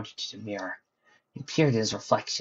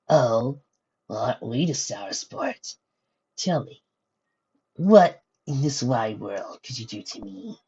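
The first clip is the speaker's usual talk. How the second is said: coy sneer. Acted. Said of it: "with a coy sneer".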